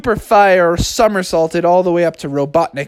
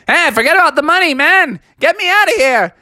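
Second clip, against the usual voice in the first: higher, fast, exasperated; urgent plea; 12 semitones higher, 3 dB louder than usual. Acted. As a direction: hurry him up. Froggy stuck, Sonic grabbing money.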